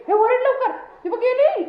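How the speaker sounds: high-pitched playful alarm; excited alarm. Pretend. Owner warning the dog she is leaving, mock-urgent.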